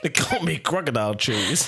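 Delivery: lightly voiced old-time gangster; a hint of movie gangster; 1930s gangster. Co-host echoing the villain's catchphrase, lightly done gangster. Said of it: "I talk like a nineteen thirties".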